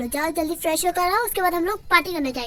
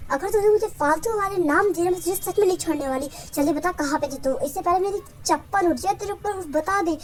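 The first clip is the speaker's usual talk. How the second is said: mildly angry parental scolding; a touch of heat in the threat. Acted. Mother demands to know where her child was, mildly angry. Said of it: "क्यों इतना गुस्सा कर रही हो?".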